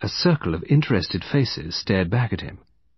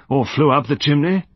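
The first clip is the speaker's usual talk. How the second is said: sceptical, higher-pitched question; sarcastic doubt, pitched up; 5 semitones higher, 4 dB louder than usual. A narrator's reading. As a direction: toss out an absurd alternative, doubting. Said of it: "said Colonel Berry skeptically".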